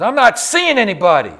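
loud, high retold yell. Father shouting at his friend to go away, loud. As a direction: shout it through the locked door. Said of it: "he yelled".

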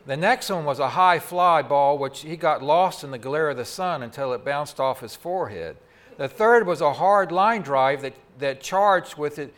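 usual speaking voice

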